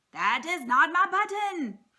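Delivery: Toad's fed-up shout. A narrator's reading. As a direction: yell it out in frustration. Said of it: "shouted Toad".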